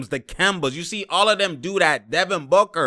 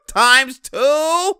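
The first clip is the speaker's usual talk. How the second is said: excited squeal; 10 semitones higher, 4 dB louder than usual. Real, not acted. Excited about a repeated play.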